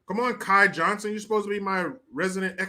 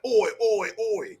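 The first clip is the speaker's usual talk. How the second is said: British hooligan; 2 semitones higher than usual. Acted. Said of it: "the soccer hooligans".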